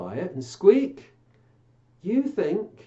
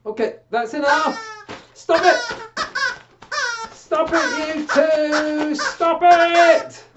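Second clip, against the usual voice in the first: stop it; 13 semitones higher, 8 dB louder, slower than usual. Real, not acted. Puppets start squabbling.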